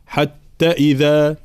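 "حتى إذا" with its long vowels held unevenly; uneven madd mistake. Shown as a demonstration. Teacher showing what to avoid, "حتى إذا" with unequal madds. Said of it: "لا نقول مثلًا".

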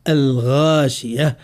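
الغاشية slowly, with a dark, full ghaa; careful recitation with heavy غ in الغاشية; heavy ghayn. Shown as a demonstration. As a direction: stretch the emphatic ghaa in الغاشية. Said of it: "ما عرفنا في حرف الغين".

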